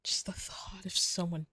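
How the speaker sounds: hushed, tender whispered confession; emotional whisper. Acted. Whispering love confession to partner, hushed and emotional. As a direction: breathe it out like a secret you can barely say. Whispered fearful thought of harm.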